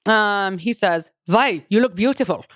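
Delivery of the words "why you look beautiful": put-on lightly done German accent; mock German-accented line. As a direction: quote the date with a German accent. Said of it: "convince myself I'm German".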